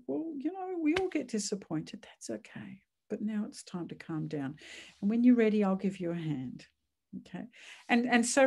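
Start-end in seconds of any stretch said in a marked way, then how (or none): 0.1-6.6 calm soothing parent. Shown as a demonstration. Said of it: "calm and center ourselves".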